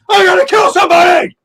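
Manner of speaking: high, loud hammed-up yell; mock fired-up shout. Co-host mocking Brett's rant, mock fired-up shout. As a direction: mimic a hothead roaring. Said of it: "You're like".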